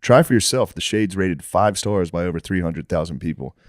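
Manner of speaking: podcast host's sponsor read. Acted. Host pitching Shady Rays shades to listeners, ad read. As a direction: read out the sponsor copy with steady sales polish.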